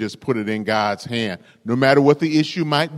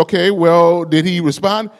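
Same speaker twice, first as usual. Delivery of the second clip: impatient ranger; 5 semitones higher, 4 dB louder than usual. Acted. Ranger presses translator.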